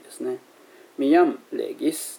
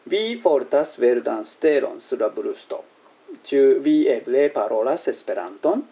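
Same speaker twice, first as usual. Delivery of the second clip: reading a dialogue aloud; slower than usual. Acted. Dialogue read in Esperanto.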